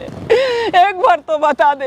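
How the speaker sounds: slow, drawn-out plea; pleading slowly with a son; desperate pleading. Real, not acted. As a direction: beg for an answer, stretching the words. Mother begging her son.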